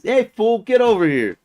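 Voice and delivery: lightly mimicked guard's call; imitated bossy summons; guard summoning. Retelling guard summoning people.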